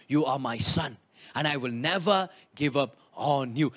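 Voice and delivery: low, gentle voice of a father reassuring his son; tender father's voice. Retold or imitated. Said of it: "the dad was saying".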